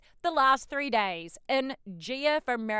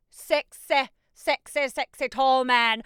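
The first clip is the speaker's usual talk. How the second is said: swooning; 6 dB louder, slower than usual. Real, not acted. Swooning over the actor.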